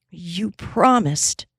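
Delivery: slow, trembling plea; a touch of a quaver on it, drawn out; Molly reminding him, slow and trembling. Acted. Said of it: "trembled Molly".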